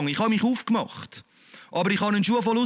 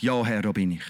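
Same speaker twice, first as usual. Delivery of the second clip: humble yes; 11 semitones lower than usual. Retold or imitated.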